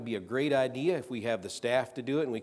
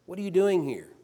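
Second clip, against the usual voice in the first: loud, higher voice of God, stress on doing; booming call; 8 semitones higher, 5 dB louder than usual. Acted. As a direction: call it out like thunder from the mountain. God calls out to Elijah.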